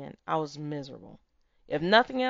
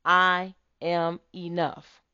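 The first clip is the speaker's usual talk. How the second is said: slow affirmation; slower than usual. Shown as a demonstration. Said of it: "say it with me".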